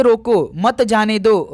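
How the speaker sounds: रोको said slowly, then a break before मत जाने दो; pause after रोको. Shown as a demonstration. Teacher showing how punctuation changes meaning, pause after रोको. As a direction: set रोको apart as its own command. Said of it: "रोकने की बात है".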